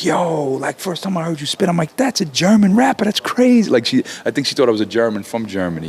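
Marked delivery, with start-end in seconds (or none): 0.0-3.7 a light impression of an amazed fan, rising much higher at the end; imitating Lin Q. Rapper retells Lin Q hearing him spit, lightly amazed voice. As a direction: voice her surprise, lightly. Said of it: "And she was like".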